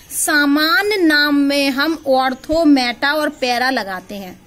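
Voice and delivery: slow, measured delivery of a key rule; deliberate, word-by-word explanation; careful emphatic teaching. Real, not acted. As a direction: spell it out slowly for the class. Teacher stresses key rule to class.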